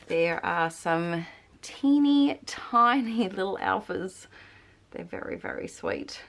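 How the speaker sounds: short breathy phrases, pregnant; out of breath. Real, not acted. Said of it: "I'm sorry I'm so out of breath".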